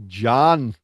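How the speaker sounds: imitated Scottish call of a name; Scottish accent. Co-host copying the Scottish friend's name for Jan, Scottish accent. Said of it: "like, a Scottish accent".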